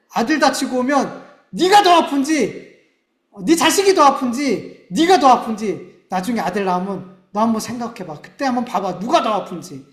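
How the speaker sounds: loud, high, upset fatherly scolding; retold scolding. Father scolding his injured son, loud and upset. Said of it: "이게 아니라 화가 났어요".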